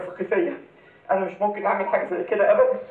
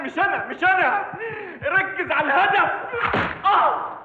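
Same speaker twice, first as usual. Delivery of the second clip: terrified shouting; 11 semitones higher, slower than usual. Acted. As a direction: scream in panic at the intruder.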